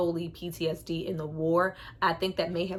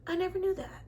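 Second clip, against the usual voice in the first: mock awe; 11 semitones higher than usual. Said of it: "I was like".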